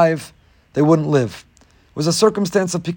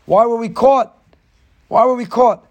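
pitched up, whining frustration; whiny complaint; 7 semitones higher, 3 dB louder than usual. Acted. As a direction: whine like a brother who got caught. Brothers whining about being caught.

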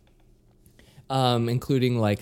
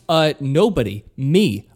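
eager claim; 2 semitones higher, 5 dB louder than usual. Retold or imitated. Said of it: "And I just went".

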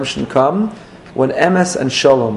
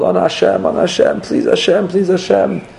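high, intense pleading prayer; imitating a chassid's frantic prayer; fervent pleading; 5 semitones higher than usual. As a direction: pray it with wild fervor, pitch up. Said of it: "he's having all the Kavanah in the world".

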